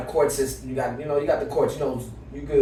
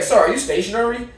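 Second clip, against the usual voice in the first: mock judge; 8 semitones higher, 4 dB louder than usual. Voicing the judge.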